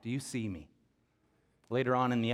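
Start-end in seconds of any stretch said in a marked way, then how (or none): 0.0-0.7 crying out to God. Retold or imitated. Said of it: "he's just crying out".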